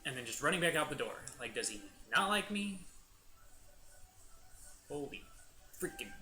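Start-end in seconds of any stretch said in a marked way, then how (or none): 0.1-2.8 lightly voiced puzzled mom, pitch lifting; a hint of a bewildered mother; mock a mom's baffled questioning; imagined mom. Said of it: "our mom's all like".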